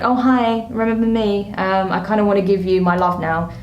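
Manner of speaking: a hint of a sugary ex trying their luck; sweet-talking ex. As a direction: play the ex sliding back in, all innocent.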